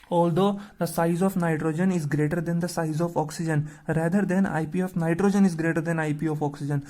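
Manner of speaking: very slow, word by word, for students to copy; slow dictation. Shown as a demonstration. Teacher reading the answer aloud to students, slow dictation. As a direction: spell it out slowly so the class can write. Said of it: "teacher dictates written answer slowly".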